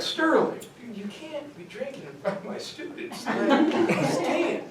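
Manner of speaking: high, laughing scold, slowing at the end; half-laughing plea to stop; laughing protest. Retold or imitated. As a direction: protest while cracking up. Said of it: "I'm like".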